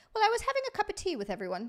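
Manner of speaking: high, quick mock British reading; attempted British accent. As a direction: read it in a playful, high-pitched British accent. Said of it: "should I do this in the British accent".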